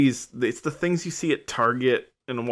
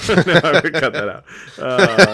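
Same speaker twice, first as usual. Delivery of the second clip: loud, higher, breaking up laughing; can't keep straight face; 7 semitones higher, 10 dB louder than usual. Real, not acted. Host cracking up at their own joke, real laughing. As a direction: laugh through the words, unable to stay serious. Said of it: "can't even say that with a straight face".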